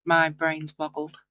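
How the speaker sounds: words slowed by a yawn. Real, not acted. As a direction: talk through a yawn. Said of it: "I yawned then".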